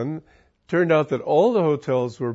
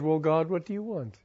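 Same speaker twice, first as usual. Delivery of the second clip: quiet, unhurried question to God; a calm, trusting plea to God; calmly said; 3 semitones higher, 4 dB quieter than usual. Retold or imitated. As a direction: ask it calmly, without worry. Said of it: "Just calmly said".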